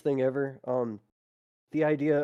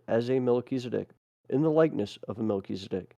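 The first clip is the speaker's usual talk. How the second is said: measured, solemn reading of a record; deliberate phrasing with short pauses; formal read-aloud. Acted. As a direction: read it out like an official proclamation. Reads a text aloud.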